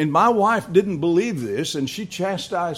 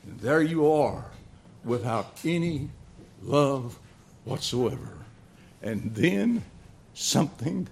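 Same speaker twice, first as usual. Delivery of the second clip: tender preaching appeal; 3 semitones lower, 4 dB quieter than usual. Acted. Preacher to congregation about unloved sinners, softly pleading. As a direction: draw the listeners in gently.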